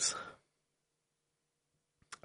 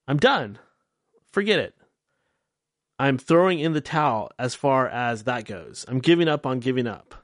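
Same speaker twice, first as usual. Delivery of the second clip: ordinary talk, nothing marked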